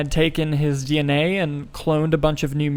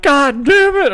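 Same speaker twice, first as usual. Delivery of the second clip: higher, louder cry of "God damn it"; breaking down; 10 semitones higher, 7 dB louder, slower than usual. Retold or imitated. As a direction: let it burst out as the tears come. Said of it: "and I was like".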